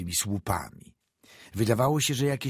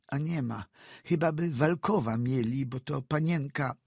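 put-on higher, hesitant old woman's voice; old peasant woman; 7 semitones higher than usual. A narrator's reading. Frightened old woman answering the doctor, stammering.

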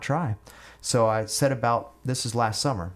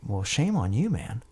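mock scolding, pitch raised on the reproach; imitated lecturing. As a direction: lecture him like a disappointed tipsy friend. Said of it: "lecturing me".

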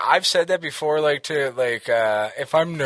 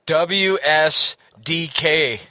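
slow spelling; much slower than usual. Real, not acted.

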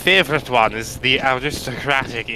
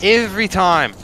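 put-on Australian accent; 6 semitones higher, 6 dB louder than usual. Continuing the Aussie bit.

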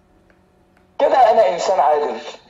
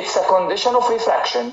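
slow dictation; much slower than usual. Shown as a demonstration. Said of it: "تقول لي".

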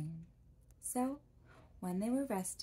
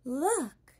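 sharp loud call, pitched up; cried out; 6 semitones higher, 9 dB louder than usual. A narrator's reading. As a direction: shout it to point something out. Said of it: "the Tin Woodman cried out".

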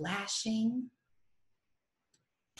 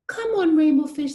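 high, bright playful fish voice, calling out; 8 semitones higher, 11 dB louder than usual. Acted. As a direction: call him over to play, loud and high.

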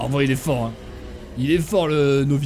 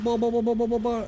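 high, repeated "bah-bah"; repeated "bah" noise; 5 semitones higher than usual. Real, not acted. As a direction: babble a string of high bahs. Repeated noise during fight.

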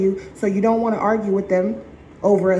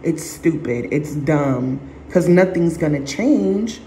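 dismissive inner voice; 6 semitones lower than usual. Retold or imitated. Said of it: "So now you look to the side".

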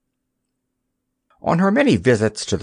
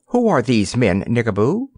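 stern question. Acted. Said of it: "he inquired sternly".

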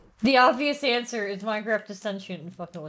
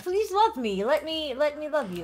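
mock pleading; 3 semitones higher than usual. Begging game cows to follow her.

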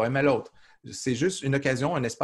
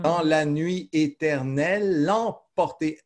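slow, a little higher, the final e held before emporter; slow verse recital; 4 semitones higher, 4 dB louder, slower than usual. Shown as a demonstration. Teacher showing the elision of the mute e, slow recital. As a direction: stretch éternelle into l'emporter. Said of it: "Vous voyez comment, euh, on compte".

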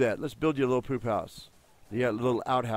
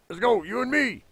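high coaxing voice; 10 semitones higher than usual. Acted. Coaxing a dino.

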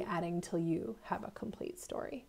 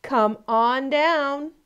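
loud, slow, higher taunt; pig yelling; 5 semitones higher, 7 dB louder, much slower than usual. Acted. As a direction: dare the wolf to come down. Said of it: "The third little pig yelled".

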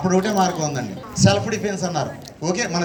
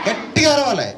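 emphatic answer; 5 semitones higher than usual. Real, not acted. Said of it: "ఏం చేయాలి?".

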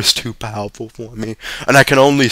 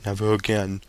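whimpered; 2 semitones lower, 10 dB quieter than usual. A narrator's reading. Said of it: "whimpered Father".

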